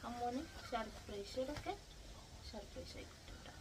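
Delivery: slow, soft whisper; secret whisper. Real, not acted. Owner tells Ammu the trip is a surprise, slow whisper.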